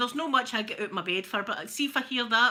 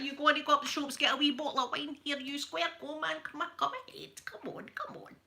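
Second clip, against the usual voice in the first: mock Glasgow ned, rising high and fading to a hiss; egging someone on in a Glasgow ned accent; 5 semitones higher than usual. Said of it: "This is what Glasgow's like".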